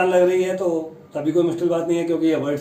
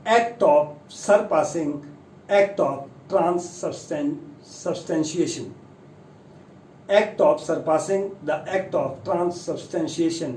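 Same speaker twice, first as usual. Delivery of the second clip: slow reading; much slower than usual. Shown as a demonstration. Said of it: "इसका जो मतलब है".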